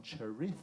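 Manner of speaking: "chorizo" hammed up like a flamenco dancer; "chorizo" with exaggerated Spanish flourish; flamenco-style chorizo. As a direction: burst into over-the-top Spanish on "chorizo". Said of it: "turns into a fucking flamenco dancer".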